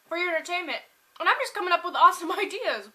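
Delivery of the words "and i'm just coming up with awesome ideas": fast, loud, laughing through it. Real, not acted. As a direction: laugh as you say it. Laughs mid-sentence.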